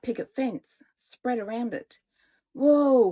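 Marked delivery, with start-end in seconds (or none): 2.5-3.1 loud, high wonder at the sight; a boy's awed whoa, louder and higher; amazed whoa. Acted. Hansel seeing the candy house, loud amazed whoa. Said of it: "Hansel said".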